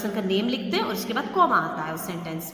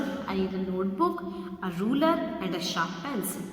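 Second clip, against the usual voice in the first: slow read with a short pause after notebook; pause at comma; 3 semitones lower, 4 dB quieter, much slower than usual. Shown as a demonstration. Teacher showing students the comma pause, slow and measured. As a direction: let a beat fall after the comma. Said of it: "इस तरह से बोलेंगे ना".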